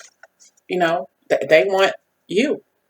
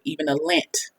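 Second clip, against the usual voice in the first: dropped low punchline; 2 semitones lower, 9 dB quieter than usual. Shown as a demonstration. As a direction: say the lint part very softly, almost under the breath. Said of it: "You hear that?".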